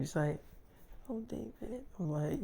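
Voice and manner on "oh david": tiny, high, hushed swoon; imitating a smitten girlfriend, very soft; tender. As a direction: coo the name quietly. Girlfriend after exchanged I love yous.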